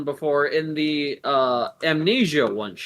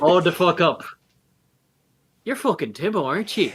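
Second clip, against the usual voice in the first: startled recognition; 4 semitones higher than usual. Acted. NPC recognising Timbo.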